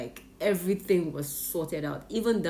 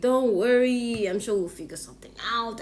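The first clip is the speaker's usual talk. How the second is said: reassuring cousin; 5 semitones higher, 4 dB louder than usual. Retold or imitated. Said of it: "she was like".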